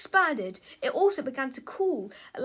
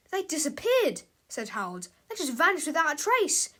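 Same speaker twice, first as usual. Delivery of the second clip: amazed; 3 semitones higher, 3 dB louder than usual. Acted. Harold tells George the boxes vanished, surprised. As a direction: blurt out the shock.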